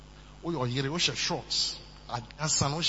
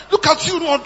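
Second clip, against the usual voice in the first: loud sneer; 6 semitones higher, 11 dB louder than usual. Retold or imitated. Michal's sneer shouted.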